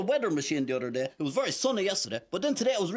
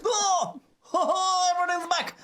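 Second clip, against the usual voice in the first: delighted cheer; 9 semitones higher than usual. Acted. Puppet cheering as his stuff returns, delighted. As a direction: burst out happy.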